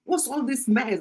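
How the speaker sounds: lightly put-on British accent of her protesting son; imitated Oyibo English. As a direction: mimic the son's Oyibo grammar, lifting on the last question. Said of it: "He was just trying to speak his, uh, Oyibo grammar".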